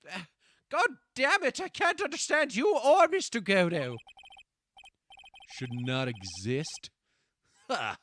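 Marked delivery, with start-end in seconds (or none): 0.7-4.0 loud, higher exasperated rant; frustrated outburst. Real, not acted. Streamer fed up with confusing game lawyers, loud frustrated rant. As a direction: throw up your hands, annoyed.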